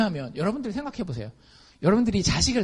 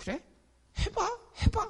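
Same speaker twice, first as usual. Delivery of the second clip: breathy, half-whispered, sarcastic, mocking voice; 6 dB quieter than usual. Showing how words in a bible passage sound, imitating sarcastic mockery. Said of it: "말투가 되게 비꼬는 거예요".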